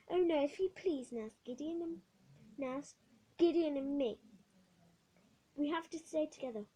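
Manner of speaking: put-on young girl begging the nurse; pleading girl. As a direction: beg to stay with your brother.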